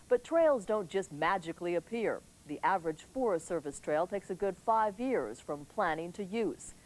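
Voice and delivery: measured TV anchor delivery; news read. Acted. Anchor reporting the evening news to viewers, crisp broadcast read.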